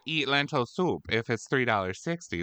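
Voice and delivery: rising, fast indignant rant over soup prices; mock outrage. Housewife character ranting to her friend about soup prices, mock outrage. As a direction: play up the price shock like a grumpy housewife. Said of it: "I was like".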